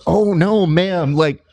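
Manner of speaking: high-pitched mock placating; flustered backpedalling. Comedian explaining his joke to an offended woman, high and placating.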